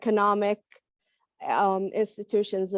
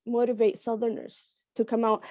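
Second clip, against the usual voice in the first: raspy voice. Real, not acted.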